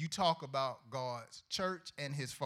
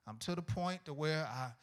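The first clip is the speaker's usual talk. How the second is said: quiet mock confession; 5 semitones lower, 8 dB quieter than usual. Young sinner admitting lust to God, softer and sheepish. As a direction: mumble it like a guilty church kid.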